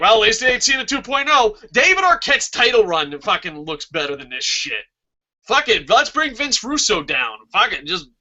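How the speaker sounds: real exasperated outburst, getting carried away; worked up. Real, not acted. Fan venting about the champion, getting emotional. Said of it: "get all emotional there".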